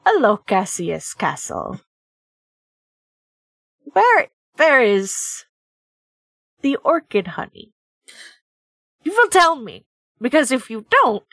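put-on measured threat with long pauses, lightly accented; menacing bear. Game player voices Husky, menacing bear.

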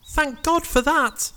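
slow, high falsetto relief; relieved Jack character. Acted. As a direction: sigh it out in a squeaky hero voice. Jack's voice after giant's death.

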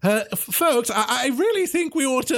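high, nervous stammer; nervous professor. Acted. Cat professor nervously urging the others to leave, high and stammering. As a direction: warn them, worried.

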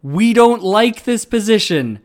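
loud, high voice of the hip muscles; calling out. Retold or imitated. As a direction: call out from the body. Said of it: "call out to me".

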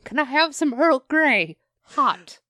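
high would-be British granny sounding Southern; botched British old lady. Acted. Host orders tea as an old lady, British accent gone Southern. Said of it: "That was Southern".

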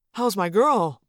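lightly voiced dad, sincere greeting; genuine. A narrator's reading. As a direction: drop the fakery and greet sincerely. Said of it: "in a genuine voice".

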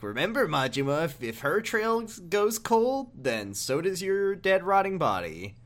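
imitating Sagawa. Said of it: "he basically says, like".

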